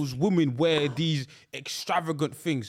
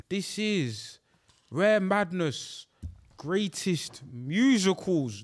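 slow, drawn-out title announcement; announcer; much slower than usual. Acted.

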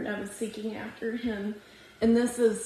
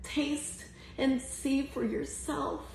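hushed intimate; 5 dB quieter than usual. Real, not acted. Hushed intimate close of sermon.

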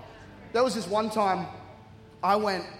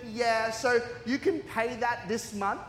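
slow, put-on agent voice with rising end; imitated call-centre girl; slower than usual. Phone agent asks customer to pay, imitated slow question. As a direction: lightly play an oblivious phone agent. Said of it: "She's like".

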